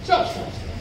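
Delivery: breathy whisper, calling a halt; whispered stop. Real, not acted. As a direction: whisper the stops to the pourer. Stop repeated, whispered this time. (ফিসফিস করে থামো বলা)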